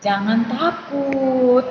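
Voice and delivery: slow, calm comfort; reassuring. Retold or imitated. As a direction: soothe frightened people, unhurried. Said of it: "Musa bilang apa".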